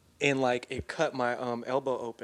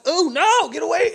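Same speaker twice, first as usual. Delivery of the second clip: much higher, louder frightened plea; retold panic; 13 semitones higher, 9 dB louder than usual. Boy pushing mom away from wound, high loud panic. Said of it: "I'm like".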